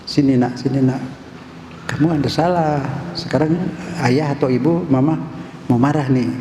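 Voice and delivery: mildly softened parental coaxing; a touch of courteous, patient parenting; polite, gentle parent. Acted. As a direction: call the child over kindly and politely. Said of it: "Coba kalau santun, sopan ngomongnya".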